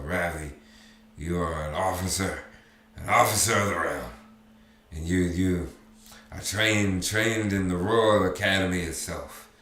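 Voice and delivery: steeling himself. Acted. Drunk father steeling himself in memory.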